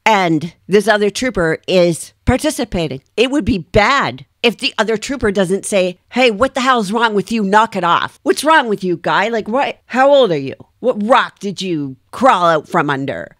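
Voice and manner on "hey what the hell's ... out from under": acted rebuke to a colleague, pitch jumping up; indignant scolding. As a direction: tell off a fellow trooper in mild outrage. Voices the rebuke trooper should give.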